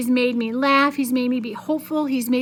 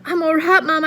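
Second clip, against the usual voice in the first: louder, reassuring call; shouting; 4 semitones higher, 5 dB louder than usual. Acted. Billy reassuring his mother, raised shout. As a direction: call out you're fine. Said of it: "I shouted".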